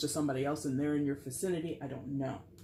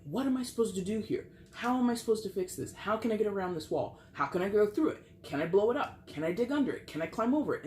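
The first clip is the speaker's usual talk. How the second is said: imitating Leo stumped; 5 semitones higher, faster than usual. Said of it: "looking at that brick wall going".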